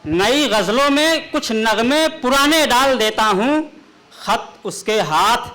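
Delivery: measured, declaiming poetic delivery; ghazal recitation. Acted. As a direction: recite the couplet grandly.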